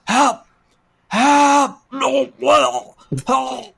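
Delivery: high, loud panicked yelling for help; mock cries for help. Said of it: "I was knocking down doors".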